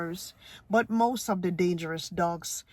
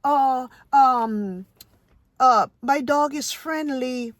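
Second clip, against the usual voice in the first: higher, louder, sugary mock reassurance; mock dog owner; 4 semitones higher, 3 dB louder, slower than usual. Mocking careless owners at the park in a higher put-on voice. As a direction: lightly mimic a doting owner brushing off worry. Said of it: "you hear them say".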